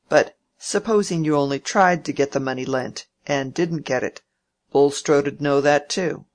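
a hint of a testy old uncle, pushing hard; old Featherstone.

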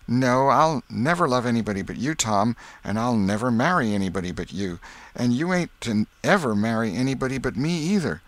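lightly voiced girl, promising; earnest girl Becky. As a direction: vow it like a schoolgirl. Becky makes her promise.

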